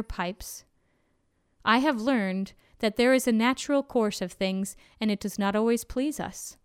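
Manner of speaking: weary, worn-down voice of the road; tired dusty road voice. Acted. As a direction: speak like an old tired road. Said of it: "The voice of the road rose up, tired and dusty".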